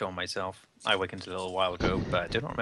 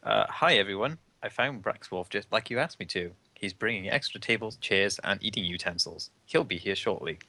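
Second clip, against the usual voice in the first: barely raised, lightly voiced character; a hint of falsetto. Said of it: "Just do a little falsetto".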